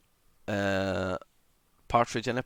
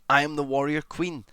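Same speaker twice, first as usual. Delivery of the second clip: declared proudly; 4 semitones higher, 4 dB louder than usual. Shown as a demonstration. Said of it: "Or you say".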